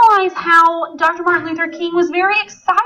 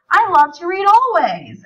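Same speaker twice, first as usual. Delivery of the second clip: excited exclamation; 4 semitones higher than usual. Shown as a demonstration. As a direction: sound like an exclamation point. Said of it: "I'm very excited about that".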